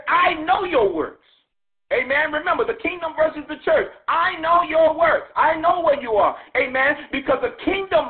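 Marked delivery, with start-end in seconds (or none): 0.1-6.3 voice of Jesus. Acted. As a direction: speak as the Lord who sees everything. Preacher voicing Jesus, rising intensity.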